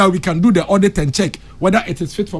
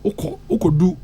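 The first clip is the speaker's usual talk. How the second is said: whispered aside; 3 semitones higher, 4 dB quieter than usual. Real, not acted.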